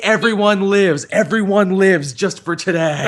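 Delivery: slow, laughing triumphant proclamation; Doctor Who quote. Retold or imitated. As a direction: proclaim it slowly through a laugh.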